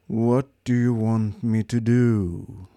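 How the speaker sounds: slow, lifeless robot voice; bored superior machine; depressed robot drones on; gloomy robot. Acted. Marvin's voice.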